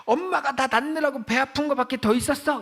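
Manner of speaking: high-pitched imitation of an insolent daughter; bratty retold yell. Daughter yelling back at her mother, mock insolent outburst. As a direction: talk back like a rude teen, voice jumping up. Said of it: "딸이 이렇게 소리를 질렀".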